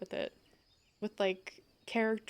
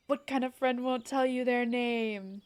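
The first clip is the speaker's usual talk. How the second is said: a light put-on British accent, a bit louder, pressing the question; demanding a name in a mock British accent; Joseph Joestar British accent; 2 semitones higher, 4 dB louder than usual. D&D player quizzing a stranger in a British accent. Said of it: "especially with the accent".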